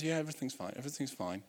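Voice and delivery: mock brushed-off fine. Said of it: "She goes".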